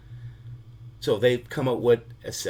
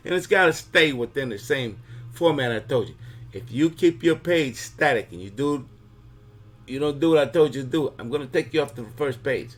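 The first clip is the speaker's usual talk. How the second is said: a lightly voiced mob boss laying down the law, louder; a hint of a Mafia godfather, louder and pushing; Godfather warning; 3 semitones higher, 3 dB louder than usual. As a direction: warn him like a don who means it. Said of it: "you hear this voice again that says".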